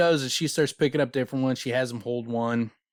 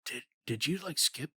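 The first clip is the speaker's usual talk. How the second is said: higher-pitched teasing question; hesitant, mocking query that rises sharply; mock aside to a colleague; 8 semitones higher than usual. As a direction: ask it as a snide private aside, voice climbing. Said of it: "leans into Vachette".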